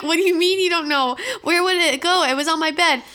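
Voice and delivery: put-on loud, high indignant child protest. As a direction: protest like a wronged kid. Childhood self protesting, laughing.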